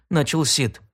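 ordinary delivery

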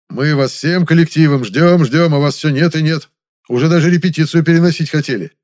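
loud reproach; reproachful. Acted. Director scolding the late actress loudly.

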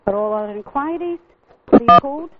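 recorded automated greeting; even, polished menu announcer read; phone menu voice. Real, not acted.

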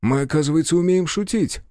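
lively, teasing exclamation; merry amazement. A narrator's reading. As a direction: react with delighted astonishment. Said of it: "вызвало у Акермана весёлое изумление".

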